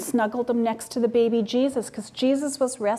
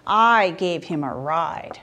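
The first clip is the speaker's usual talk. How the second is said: slow, lower proud donkey; 5 semitones lower, slower than usual. Acted. Donkey boasting to the other animals, slow and lower. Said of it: "The donkey goes".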